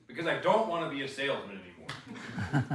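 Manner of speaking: loud, exasperated retort with a laugh; fed-up retort. Retold or imitated. Telling his niece why, loud and fed up. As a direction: blurt out being fed up. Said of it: "and I said it with such a".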